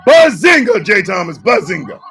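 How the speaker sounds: loud hype shout of bazinga; booming bazinga greeting; shouted catchphrase. Acted. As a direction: yell it like a hype man.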